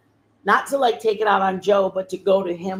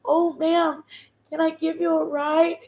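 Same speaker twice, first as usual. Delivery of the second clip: higher, kindly stranger offering help; concerned stranger; 7 semitones higher than usual. Retold or imitated. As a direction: lift the voice like a worried passer-by. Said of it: "She goes".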